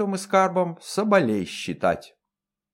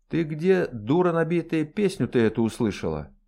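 mild menace; 4 semitones higher than usual. Acted. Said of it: "грозно спросила".

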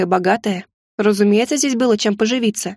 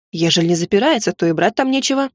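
взволнованно; 2 semitones lower than usual. Acted. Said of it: "заметно волнуясь".

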